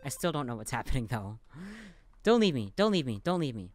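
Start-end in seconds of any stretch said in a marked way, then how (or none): 2.2-3.7 loud desperate plea fading down each time; pleading, fading. Shown as a demonstration. Player trying out a choice, shouting then fading. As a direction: start shouting it, then let it die away. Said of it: "Let's say the last".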